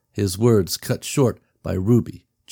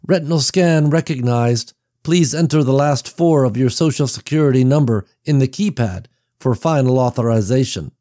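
computerized voice; 5 semitones higher than usual. Acted. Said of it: "the computerized voice".

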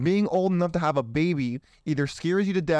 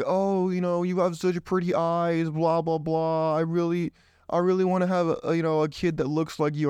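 flirty woman; 3 semitones higher than usual. Retold or imitated. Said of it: "she was like".

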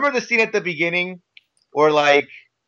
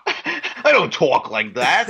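slow, drawn-out Cary Grant impression, half laughing; mock Cary Grant; much slower than usual. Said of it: "I can't even do, I can't even do a proper Cary Grant impression".

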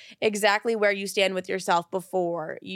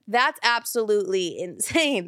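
disbelieving laugh mid-line. Real, not acted. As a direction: laugh through the words. Repeats line, laughing first time.

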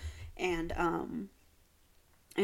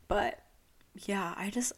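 whispering; slower than usual. Real, not acted. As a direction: drop to a breathy whisper. Unvoiced aside.

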